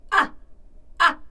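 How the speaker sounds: short, loud "ah" with a hard catch; punchy vocal onset demo; abrupt-onset "ah". Shown as a demonstration. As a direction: hit "ah" suddenly and cut it. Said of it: "하고 걸리는 경우".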